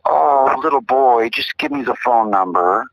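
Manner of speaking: a hint of a soothing operator; kindly operator. Operator answering a little boy, lightly acted soothing voice. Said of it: "the operator would say".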